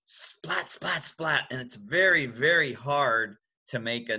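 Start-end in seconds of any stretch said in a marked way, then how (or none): 0.0-1.5 lightning splat. Shown as a demonstration. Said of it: "He makes lightning".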